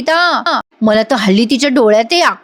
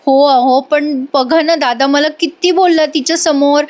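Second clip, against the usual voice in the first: tearful complaint; 3 semitones higher than usual. Retold or imitated. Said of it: "Arpita रडत असते".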